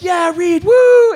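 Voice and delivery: high whooping yell; whooping cheer. Retold or imitated. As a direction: whoop it up for your buddy. Porn stars cheering him.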